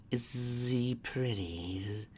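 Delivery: small nervous question. Acted.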